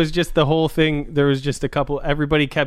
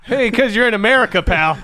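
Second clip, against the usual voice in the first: tough guy voice; 6 semitones higher, 4 dB louder than usual. Retold or imitated. Steve Buscemi impression.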